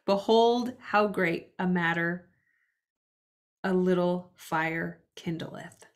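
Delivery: scripture reading. Acted. To the listeners, a measured Bible reading. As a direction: read it out like a verse from the pulpit.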